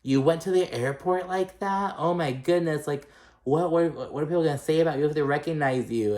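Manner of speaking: high, mocking Kyle impression; imitating Kyle. Kyle scolding Kathy about her slippers, high mock shock. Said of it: "And Kyle's like".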